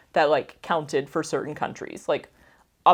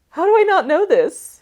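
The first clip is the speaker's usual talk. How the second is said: laughing; 11 semitones higher, 8 dB louder than usual. Real, not acted. Laughs at own ignorance.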